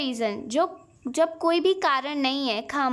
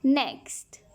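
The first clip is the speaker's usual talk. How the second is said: whispered aside. Real, not acted. Teacher moving to next item.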